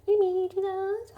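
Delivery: high, loud plea to the heavens; exasperated. Real, not acted. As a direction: cry out in mock despair.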